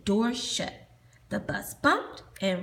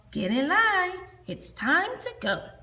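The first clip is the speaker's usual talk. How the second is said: high, louder call; 8 semitones higher, 3 dB louder than usual. Acted. Teacher calling children to line up, loud. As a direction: round them up. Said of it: "she called".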